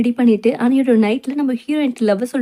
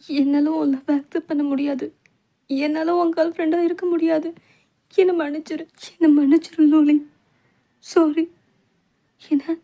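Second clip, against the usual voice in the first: crying refusal; 4 semitones higher than usual. Acted. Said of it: "அழுதுட்டு விடுவாங்க".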